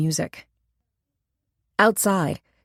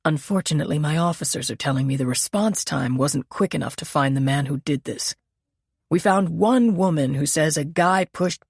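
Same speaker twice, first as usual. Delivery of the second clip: measured, slightly lowered lieutenant voice; a lightly voiced senior officer reporting bad news; police lieutenant.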